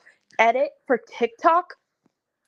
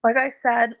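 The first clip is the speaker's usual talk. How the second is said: voice crack. Real, not acted. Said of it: "voice crack".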